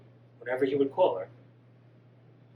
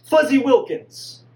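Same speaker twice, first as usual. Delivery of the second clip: higher, louder, slow call to stop her; desperate shout; 8 semitones higher, 9 dB louder, slower than usual. Acted. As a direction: yell the name before she hangs up. Son shouts to stop hang-up.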